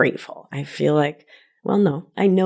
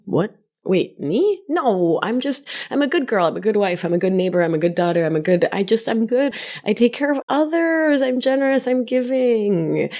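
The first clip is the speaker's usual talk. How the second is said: mock people-pleaser; 5 semitones higher than usual. Voicing her old people-pleasing self.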